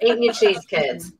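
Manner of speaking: put-on Wisconsin accent, hammed up. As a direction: play a Wisconsin local addressing children. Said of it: "you gotta do accents".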